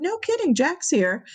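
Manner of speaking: amazed squeal. Retold or imitated. Friend amazed Jack came.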